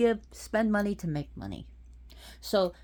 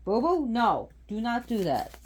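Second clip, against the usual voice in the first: scolding pet; 5 semitones higher, 4 dB louder than usual. Real, not acted. Scolding pets during video.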